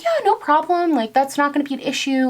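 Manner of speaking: nice lady voice. Retold or imitated. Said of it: "And she was so nice".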